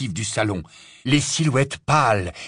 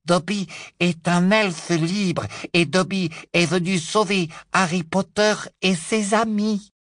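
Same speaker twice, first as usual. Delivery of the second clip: shrill elf voice; 7 semitones higher than usual. A narrator's reading. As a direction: answer firmly, chin up. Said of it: "d'une voix aiguë".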